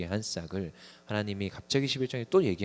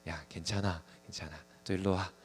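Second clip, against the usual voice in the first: mock soothing; 4 dB quieter than usual. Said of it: "얘가 막 울고 막 그러니까".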